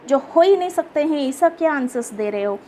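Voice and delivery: quick, lightly annoyed scolding. Acted. Rich man scolds the boy for silly answers, mild annoyed scolding. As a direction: tell off a child for silly talk. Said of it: "ये क्या बातें कर रहे हो".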